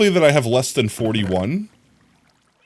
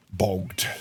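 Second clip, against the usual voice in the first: breathy whispered word; 4 semitones lower, 8 dB quieter than usual. Pretend.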